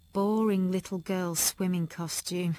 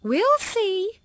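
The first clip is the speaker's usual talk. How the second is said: doubtful; 13 semitones higher, 8 dB louder than usual. A narrator's reading. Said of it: "I knew what "we'll see" meant".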